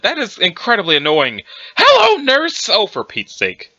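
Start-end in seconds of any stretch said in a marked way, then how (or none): 1.8-2.7 put-on old man exclamation. Cornball exclamation by the grandpa. 2.7-3.7 exasperated. Acted. Exasperated response to the exclamation.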